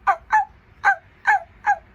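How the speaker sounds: high, loud yappy barking; happy dog barks. Shown as a demonstration. Teacher showing children how Harry barks. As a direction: bark like a happy little dog. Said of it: "Can you bark like Harry?".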